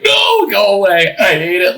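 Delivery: high, strained cry of dread; mock-frantic high wail; panicked plea. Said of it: "just losing my mind".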